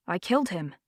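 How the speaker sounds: soft, flat-toned confession; numb, emotionless statement; quiet deadpan shock. A narrator's reading. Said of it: "said Wesley in a deadpan voice".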